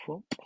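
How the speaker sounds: mock comic-book whoop; sound effect whoop. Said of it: "makes a little whoop noise".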